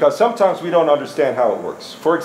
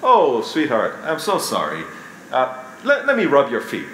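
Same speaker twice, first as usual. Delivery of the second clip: tender sympathetic husband. Shown as a demonstration. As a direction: comfort her gently. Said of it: "if you say".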